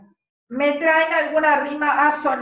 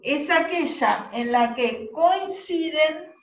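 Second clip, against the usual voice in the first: slow dictation with held pauses; dictating; 3 semitones higher, slower than usual. Real, not acted. Teacher dictating a definition to the class, slow dictation. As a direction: spell it out slowly for note-takers.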